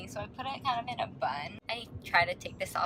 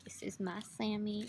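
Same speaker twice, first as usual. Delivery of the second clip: whisper; 6 dB quieter than usual. Real, not acted. Whispers over her sandwich.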